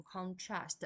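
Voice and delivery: "contrast" as a verb, stressed on TRAST; stress on second syllable. Shown as a demonstration. Teacher showing students the verb, "contrast" stressed on TRAST. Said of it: "它的重音在第二个音节".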